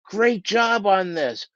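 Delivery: hammed-up compliment from a self-serving manager; mock gushing praise. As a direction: pile on the praise a bit too sweetly. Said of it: "don't make this mistake where you're going".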